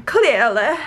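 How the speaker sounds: put-on shaky grip on a royal English accent. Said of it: "I'm losing the accent".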